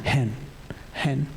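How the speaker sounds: slow, spaced-out prayerful plea; gentle childlike plea. Pretend. Preacher pleading to God as his child did, gentle plea. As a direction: plead simply, pausing between short phrases. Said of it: "Seperti anak saya".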